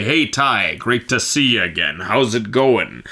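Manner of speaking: lightly imitated slow greeting; a hint of Thor, slow and measured; Thor's voice. Singer imitating Thor greeting him backstage, slow. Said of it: "he talks like this".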